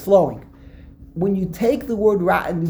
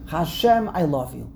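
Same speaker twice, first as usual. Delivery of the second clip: romantic; 2 semitones lower than usual. Shown as a demonstration. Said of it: "very romantic".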